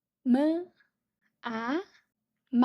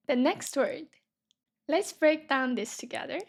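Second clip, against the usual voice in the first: usual speaking voice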